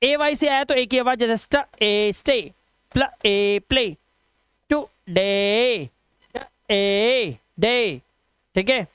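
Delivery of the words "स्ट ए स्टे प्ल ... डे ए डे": 1 slow blending. Shown as a demonstration. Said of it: "teacher blending sounds into words".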